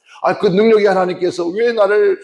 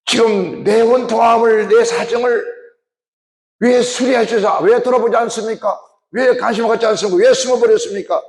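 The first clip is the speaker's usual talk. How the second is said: anguished lament; 6 semitones higher than usual. Acted. Voicing the people's lament to God.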